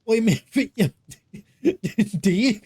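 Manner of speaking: slow, high pet-talk voice; talking to her cat in a slow, high, cooing voice. Retold or imitated. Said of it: "then I need to talk to my cat".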